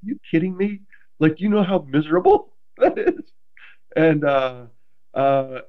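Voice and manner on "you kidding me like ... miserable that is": high pitched, laughing disbelief; incredulous. Retold or imitated. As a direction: retell the shock with a laugh. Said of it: "And I was like".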